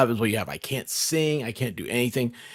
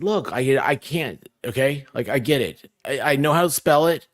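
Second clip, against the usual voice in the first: exasperated; 4 semitones higher, 5 dB louder than usual. Retold or imitated. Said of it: "I said".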